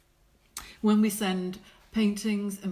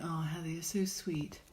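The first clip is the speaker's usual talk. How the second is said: whisper; 3 semitones lower, 6 dB quieter than usual. Real, not acted.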